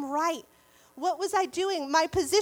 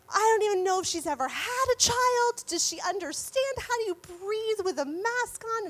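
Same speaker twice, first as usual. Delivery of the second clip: fuming rant; 5 semitones higher than usual. Retold or imitated. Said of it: "I am fuming".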